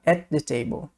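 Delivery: "at the table" with the t of "at" dropped into "the"; smooth linking demo; linked at the. Shown as a demonstration. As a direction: run "at the table" together, one consonant dropped. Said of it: "uma vai ficar de fora".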